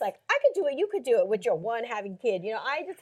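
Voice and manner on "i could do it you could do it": higher, louder mock self-righteous voice; holier-than-thou mimicry. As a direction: preach it like you can do no wrong. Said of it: "this righteousness".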